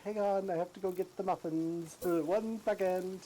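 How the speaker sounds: chirpy homemaker pausing mid-chore; 1950s housewife. Retold or imitated. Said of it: "it sounded like, you know, a housewife".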